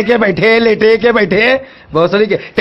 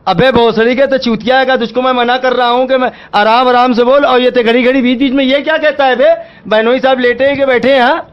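exasperated, swearing telling-off; angry scolding. Real, not acted. Shopkeeper fed up with the caller's repeated question, angry. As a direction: scold the caller with rising irritation.

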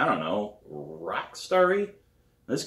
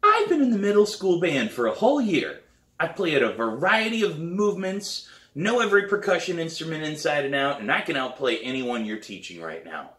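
put-on loud, higher boastful kid showing off; bragging boy; 8 semitones higher, 4 dB louder than usual. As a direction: brag like a cocky middle-schooler. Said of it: "imagine what he would say".

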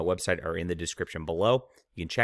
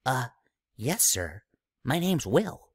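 put-on nervous kid; 4 semitones higher, slower than usual. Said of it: "as I answered".

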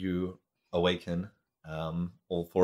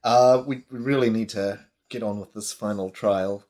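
spider voice; 2 semitones higher than usual. Acted. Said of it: "the spider says".

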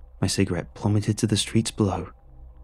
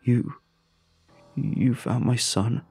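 breathless shaky father; 3 semitones higher, much slower than usual. Acted. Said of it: "said the voice on the phone, shaking with breathlessness".

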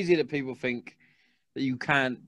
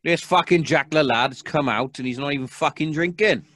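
mock angry cop; 4 dB louder than usual. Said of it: "He was like".

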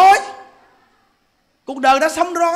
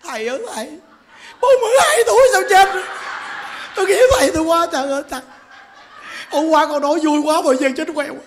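high, fast hammed-up wail; imitated sobbing disciples, frantic and high-pitched; mock wailing mourners; 5 semitones higher, faster than usual. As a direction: cry over the dead teacher in comic exaggeration. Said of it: "Quý Phật tử bu lại khóc quá trời".

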